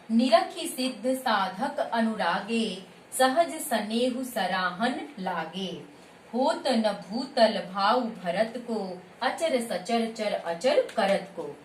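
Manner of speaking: slow, measured chaupai recitation; verse recitation. Shown as a demonstration. Teacher reciting an example chaupai to students, slow verse recitation. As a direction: recite the verse slowly, drawing out each word.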